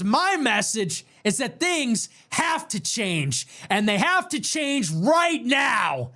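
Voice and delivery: slow, rising campaign-rally declaration that builds to a shout; Trump speech roar. Retold or imitated. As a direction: build from firm promise to a shout. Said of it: "so guttural, so masculine".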